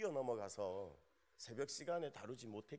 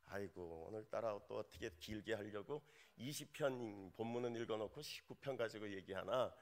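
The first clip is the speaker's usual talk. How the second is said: grumbling listener; 3 semitones lower than usual. Retold or imitated. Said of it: "그러시겠습니다마는".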